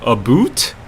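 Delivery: "boot" with a long oo, said as a question; Canadian-style vowel. Retold or imitated. Streamer querying how Canadians say about, Canadian-style vowel. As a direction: say "boot" with an oo in place of ow. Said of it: "Canadians usually pronounce it a boot".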